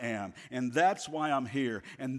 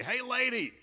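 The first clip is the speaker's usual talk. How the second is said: high-pitched parrot call; squawking parrot; 9 semitones higher than usual. Acted. Parrot heckles a lady passing the pet store, squawking. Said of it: "the parrot would say".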